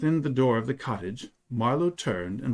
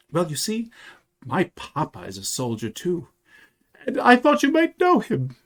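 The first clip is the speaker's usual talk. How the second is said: put-on high-pitched child voice, growing louder; earnest little boy; 11 semitones higher, 5 dB louder than usual. A narrator's reading. Boy tells soldier about his missing papa, earnest and high. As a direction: pipe up eagerly as a small boy. Child figure in narrated story.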